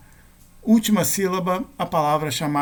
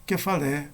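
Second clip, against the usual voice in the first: "Kefalé" stressed on the last syllable, LÉ; final-syllable stress; 4 dB quieter than usual. Shown as a demonstration. Teacher giving Greek accent examples, "Kefalé" stressed on LÉ. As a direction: put the weight on LÉ in "Kefalé". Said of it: "cair na última sílaba".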